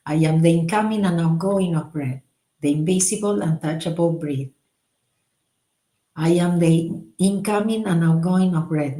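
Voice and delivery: measured, meditative mantra reading; prayer recitation. Acted. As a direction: recite it as a calm devotional prayer.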